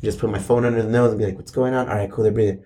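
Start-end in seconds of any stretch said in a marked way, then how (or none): 1.4-2.6 retold hushed check. Father checking sleeping kids at night, hushed. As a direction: keep it soft, as if beside a crib.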